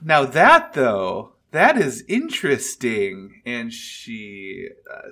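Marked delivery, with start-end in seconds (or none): 0.0-3.4 dragon voice. Acted. Dragon intrigued by Atia.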